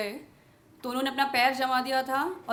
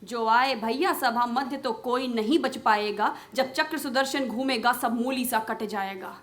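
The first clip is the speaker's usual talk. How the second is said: Draupadi's pleading, questioning verse; impassioned poem recitation. Acted. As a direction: declaim the verse as an indignant appeal.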